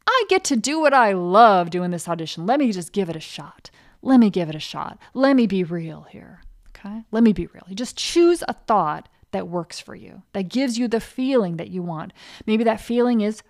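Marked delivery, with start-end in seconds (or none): 0.0-7.7 determined self-talk. Retold or imitated. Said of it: "I'm gonna say".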